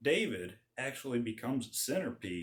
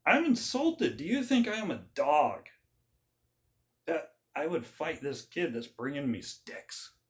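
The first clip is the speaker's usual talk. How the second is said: insulted giant; 3 semitones higher than usual. Retold or imitated. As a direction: sneer at the tiny challenger. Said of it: "this giant says".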